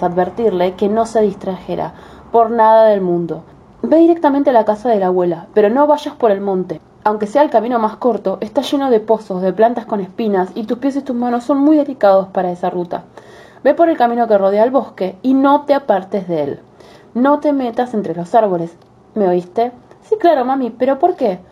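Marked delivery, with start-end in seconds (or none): 3.8-19.7 a caring mother giving a warning, a bit higher; stern mother voice. Acted. Mother warns daughter. 20.0-21.4 put-on higher, curious little girl. Girl voiced in fairy tale.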